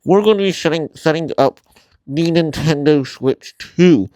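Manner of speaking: talking through a face mask; words dulled behind a mask; muffled through a mask. Real, not acted. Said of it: "I'm sorry if I sound muffled, because I am wearing a mask".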